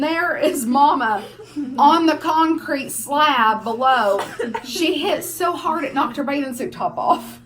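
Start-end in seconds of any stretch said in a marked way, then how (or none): 1.8-7.4 louder, laughing through the words; can barely get it out for laughing. Real, not acted. Laughing while telling story.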